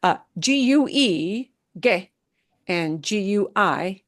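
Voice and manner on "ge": "ge" with a hard G and silent U. Shown as a demonstration. Teacher showing learners a silent letter combination, hard G in "ge". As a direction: say "ge" with G as in get. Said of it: "make the G go into a hard G sound".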